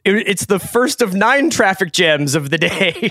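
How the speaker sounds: lightly hammed olde English; a hint of a medieval town crier; renaissance fair olde speech. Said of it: "it would be like".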